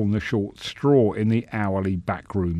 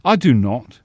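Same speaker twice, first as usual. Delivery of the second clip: cordial; 3 semitones higher, 6 dB louder than usual. Acted. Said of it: "the senator replied cordially".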